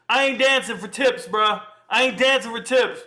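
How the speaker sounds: high and loud, playful refusal; mock proud. Real, not acted. Streamer joking to chat that he won't dance for tips, high and loud. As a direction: brag it off with a grin in the voice.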